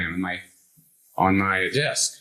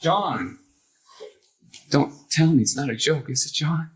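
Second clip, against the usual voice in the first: higher-pitched retold plea to a friend; begging him to say it's a joke; pleading; 5 semitones higher than usual. Reliving the plea to John, pleading and higher.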